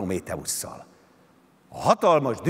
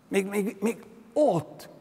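mild call-out; 9 semitones higher, slower than usual. A narrator's reading. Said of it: "kiáltott aztán".

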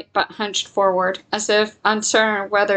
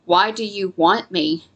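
eerily calm. Acted. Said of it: "her voice so calm it chilled her".

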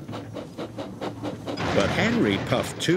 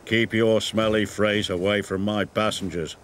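a light grumble from a grand engine; a hint of a haughty engine grumbling; grumbling Gordon; 4 semitones lower than usual. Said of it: "grumbled Gordon".

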